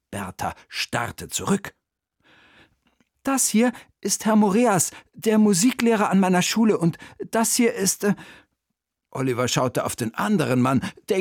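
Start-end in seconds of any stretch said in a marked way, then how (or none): 3.2-8.1 put-on high boy's voice, faltering at the end; schoolboy introducing guests. A narrator's reading. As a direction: introduce them eagerly, then get stuck. Boy introduces the visitors. (hohe Jungenstimme, am Ende stockend)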